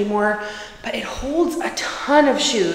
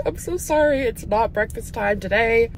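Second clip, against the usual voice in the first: higher, sorry-sounding voice to the dog; apologetic baby talk; 3 semitones higher than usual. Retold or imitated. Owner telling her dog there is no breakfast. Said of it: "And I'm like".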